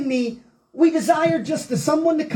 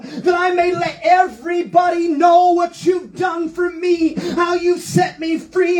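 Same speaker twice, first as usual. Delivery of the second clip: preaching at full force. Acted. Pastor rousing the congregation, full-force preaching. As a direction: shout the joy of forgiveness to the church. Climax of the sermon on David.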